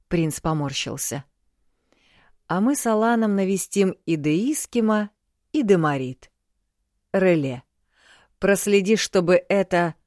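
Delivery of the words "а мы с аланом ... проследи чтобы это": booming warrior king. Acted. King gives orders.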